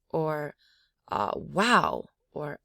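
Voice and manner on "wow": "Wow" starting high and dropping; high falling exclamation. Shown as a demonstration. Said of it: "high falling tone".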